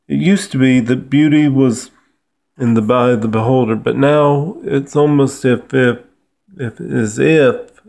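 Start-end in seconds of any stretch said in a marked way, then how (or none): 3.8-7.8 stammering over the words; stuttering. Real, not acted. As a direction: stumble and repeat the words. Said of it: "pardon me for, uh, stuttering there a little".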